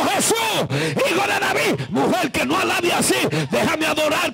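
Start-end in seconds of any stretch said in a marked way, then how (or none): 0.0-1.9 high, pleading cry; retold shouting. Woman crying after Jesus past the disciples, retold shouting. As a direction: call out for help over a crowd. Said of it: "ella sigue gritando".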